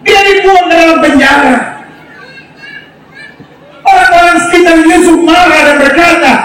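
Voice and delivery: high, emphatic pulpit delivery; full-force preaching. Real, not acted. Preacher rallying the congregation to stay silent and trust, high forceful preaching. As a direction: drive it home to the crowd, high.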